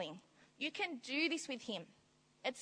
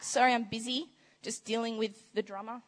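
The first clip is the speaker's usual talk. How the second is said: mock dismissive; 4 dB louder than usual. Imagined busy God brushing off.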